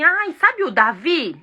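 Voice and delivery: slow chatty aside; drawn out like gossip; playful example voice; casual gossip example. Shown as a demonstration. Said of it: "Vai falar assim".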